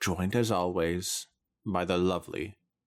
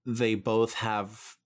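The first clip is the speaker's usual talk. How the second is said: whiny plea; 4 semitones higher, slower than usual. Real, not acted. Pleading for normal voices.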